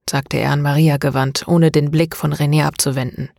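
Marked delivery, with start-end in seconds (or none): none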